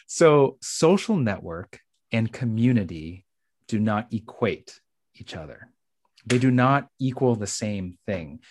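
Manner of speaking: measured preacher-style lecture; professor preacher voice. Shown as a demonstration. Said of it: "my professor preacher voice".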